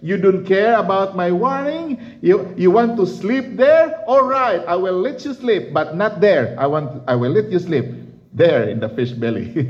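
a mildly stern God, rising on the questions; God teasing the sleeping prophet; half-mock divine scolding; God rebuking Jonah. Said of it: "God said".

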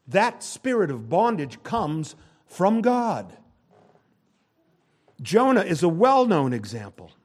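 high, loud pulpit preaching; full-force sermon delivery; fiery preaching. Acted. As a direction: preach it hard to the congregation.

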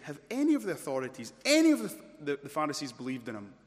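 mildly outraged challenge, punched on ANY; quick, indignant rhetorical question; indignant Pharisees. Acted. Pharisees challenge their officers, indignant. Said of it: "the fury here of the".

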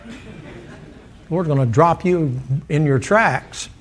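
slow, chuckling through it; half-laughing threat, drawn out; laughing warning. Real, not acted. Preacher warning the date-setter, laughing slowly.

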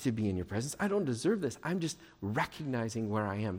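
softly acted humble prayer; understated, lowly plea; humble confession. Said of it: "He comes humbly".

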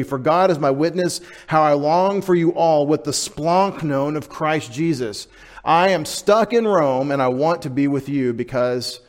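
emphatic Paul. Acted. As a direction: read it as Paul aching to be with them. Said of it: "very emphatic".

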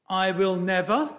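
I will NEVER with never pressed hard; stress on never. Shown as a demonstration. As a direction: lean on the word "never" in "I will never". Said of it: "It reads like this".

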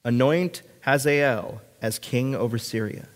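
measured, solemn Bible reading; scripture reading. Acted. Pastor reading God's command to the congregation, solemn scripture reading. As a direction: read it out deliberately, pausing between phrases.

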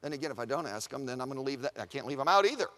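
low, soft weighing of options; musing to oneself. Acted. Paul reasons with himself about leaving the church out, low and musing.

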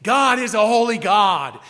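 loud, firm stress on "God" and "holy"; emphatic. Shown as a demonstration. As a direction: proclaim it, punching "holy God". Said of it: "Emphasis, brothers and sisters".

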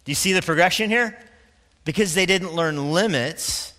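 usual speaking voice

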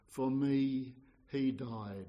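usual speaking voice

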